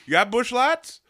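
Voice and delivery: high, loud hammed-up Midwestern yokel; loud Wisconsin fan. Wisconsinites in London asking for beer, loud mock yokel. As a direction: bellow it like a beer-hungry Packers fan abroad. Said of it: "we're like".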